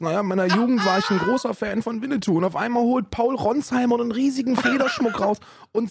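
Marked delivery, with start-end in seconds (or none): 0.0-2.4 higher, fast mock chancellor voice; a quick hammed-up Scholz; mock Olaf Scholz. Host retelling the interview, mock Scholz voice. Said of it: "Olaf Scholz sitzt und sagt".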